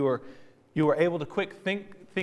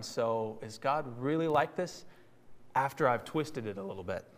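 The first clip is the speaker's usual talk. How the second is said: low, softer, sly musing; a touch of a scheming whisper-like voice; quiet insinuation; 3 semitones lower, 7 dB quieter than usual. Acted. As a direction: plant doubt under the breath. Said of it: "Satan calling God's character into question".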